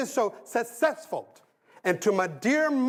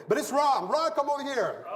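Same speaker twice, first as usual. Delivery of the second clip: laughing call; 7 semitones higher than usual. Real, not acted.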